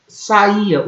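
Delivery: saía with the I stressed as its own syllable; sa-Í-a, weight on the I; strong I. Shown as a demonstration. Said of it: "O I é forte". (saía com o I forte, separado do A)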